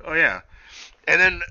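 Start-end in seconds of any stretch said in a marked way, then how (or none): 0.0-0.4 high mock voice. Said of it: "she was like".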